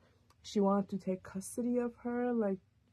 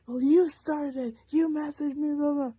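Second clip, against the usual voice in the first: mocking ex; 7 semitones higher, 10 dB louder than usual. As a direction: stretch it out higher and louder to mock her. Ex's mocking reply retold.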